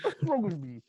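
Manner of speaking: high, loud mock panic at himself; self-mocking inner voice. Man catching himself faking an accent, mock despairing. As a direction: wail at yourself like a loser, half-joking. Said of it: "I think to myself".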